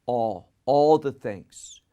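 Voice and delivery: "all" said alone, then repeated drawn out and weighted; stress on "all". Shown as a demonstration. Preacher pointing out the key phrase, stressed "all". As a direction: lean slowly on the word "all". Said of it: "The emphasis in that text is upon the phrase".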